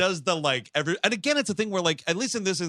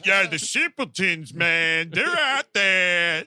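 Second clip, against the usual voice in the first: louder, drawn-out rambling livestream voice; hammed-up celebrity livestream rant; Frank Stallone; 4 semitones higher, 4 dB louder, slower than usual. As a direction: rant loudly to your followers. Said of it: "That sounds like a fucking Frank Stallone".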